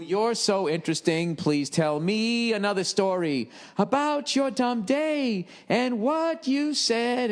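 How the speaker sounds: high, slow, sing-song fake enthusiasm; sarcastic mockery. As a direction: gush with mock fascination, dripping sarcasm. Mocking a woman who talks about herself.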